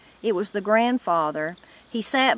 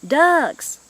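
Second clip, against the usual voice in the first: excited shout; 7 semitones higher, 6 dB louder than usual. A narrator's reading. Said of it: "excitedly boisterous".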